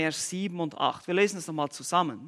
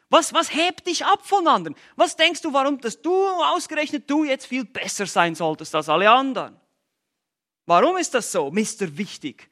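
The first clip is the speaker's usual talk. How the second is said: higher, louder needling question; mocking challenge; 5 semitones higher, 4 dB louder than usual. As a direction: poke at the puffed-up one. Mocking the puffed-up listener. (höhnisch herausfordernde Frage)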